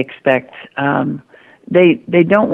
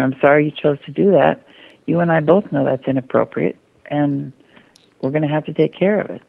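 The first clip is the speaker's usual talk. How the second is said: calm, matter of fact. Retold or imitated. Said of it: "and you stay calm".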